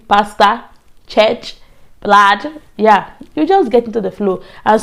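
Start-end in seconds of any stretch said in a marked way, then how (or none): 0.1-2.6 Ghanaian-style "pastor", ending in an open "-sta"; Ghanaian accent. Shown as a demonstration. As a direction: say each word separately in a Ghanaian accent. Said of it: "I started saying".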